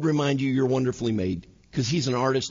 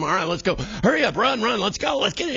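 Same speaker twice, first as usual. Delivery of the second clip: put-on hurried, rising calls to the kids; rushing parent; 5 semitones higher than usual. Parent hurrying kids into the car, rising urgent calls. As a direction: hustle them out the door, pitch climbing.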